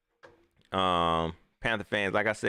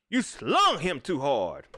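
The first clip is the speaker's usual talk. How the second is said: slow mock ref; 4 semitones higher, much slower than usual. Real, not acted. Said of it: "repeated for emphasis".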